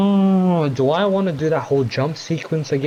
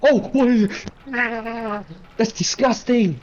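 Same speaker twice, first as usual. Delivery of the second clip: grossed out; 9 semitones higher than usual. Real, not acted. Gamer spotting something gross, high disgusted squeal.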